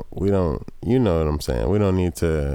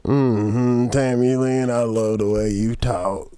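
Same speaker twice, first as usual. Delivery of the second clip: redneck trucker voice; 3 semitones higher, slower than usual. Retold or imitated.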